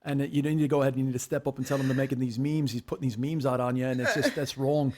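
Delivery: put-on Australian accent; Dave impression. Friend mimicking Dave to tease his co-host, Australian accent. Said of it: "you're totally nailing this accent".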